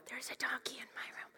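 soft whisper, playful; whispered family joke. Retold or imitated. Family repeating the toddler's donkey line in a whisper. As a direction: breathe it like a family secret. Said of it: "we laugh about".

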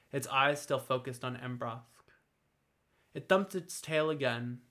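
ordinary delivery

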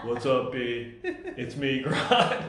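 casual greeting through laughter; laughing Grodd voice. Pretend. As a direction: play Grodd as a laughing buddy. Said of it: "talking like Grodd".

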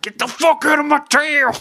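high-pitched, hammed-up yell; loud, comic attacking shout; Joanna Gaines. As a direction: bellow it like chasing someone off. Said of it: "I'm picturing fucking Joanna Gaines".

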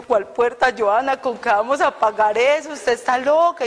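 mother protesting in disbelief; alarmed mother. Retold or imitated. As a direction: daughter recalls her mother's loud scolding. Mother alarmed, scolding daughter.

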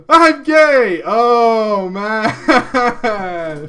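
hammed-up panicked announcement; mock coming out. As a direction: blurt it out to friends. Acting the coming out.

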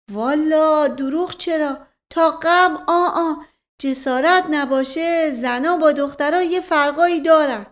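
lightly voiced old servant, slow and hesitant; a hint of a shy old servant choosing words; servant Mash Qasem. Old servant explains to the family, lightly voiced and hesitant.

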